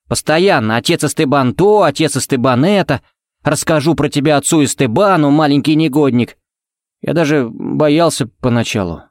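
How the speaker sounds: a hint of a sulky lad complaining; Ted's grumbling. Ted complains about the father. (слегка озвученный ворчливый парень)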